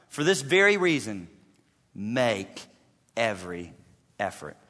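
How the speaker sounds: hushed scripture reading. Acted. Quoting verse softly, slowing.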